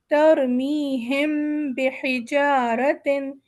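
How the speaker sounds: تَرْمِيهِمْ slow, its final meem hummed nasally into بِ; ikhfa before ba. Shown as a demonstration. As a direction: hide the meem in a nasal hum before بِحِجَارَةٍ. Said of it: "یہاں پر ہم میم پہ وزن دیں گے".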